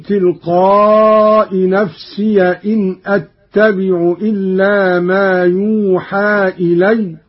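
measured tajweed chant, slow; Quran recitation. Acted. Teacher reciting the verse for students, measured chant.

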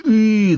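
долгое свистящее «И»; протяни звук со свистом; свистящий протяжный звук. A narrator's reading. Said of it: "длинно и свистяще протянул он". (длинный свистящий звук)

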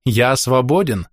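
slow, contented sigh of relief; happy and relieved. Acted. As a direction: savour the freedom slowly. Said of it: "счастливо жмурясь".

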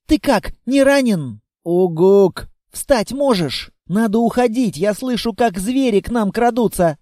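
put-on a small girl pushing him to get up; urging little girl.

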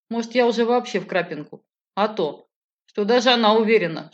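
plain reading voice

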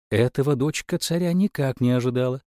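ordinary delivery, nothing marked

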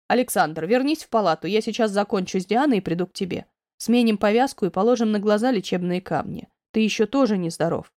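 lightly voiced doctor directing a patient; understated professional authority; doctor, calmly firm.

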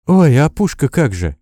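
a startled rush of worry; alarmed. A narrator's reading. Nurse suddenly worried about the gun, flustered cry. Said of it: "вдруг всполошилась девушка".

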